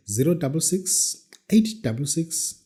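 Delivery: slowed right down, digit by digit; slow school dictation. Shown as a demonstration. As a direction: spell out each number slowly. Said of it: "I repeat the number slowly".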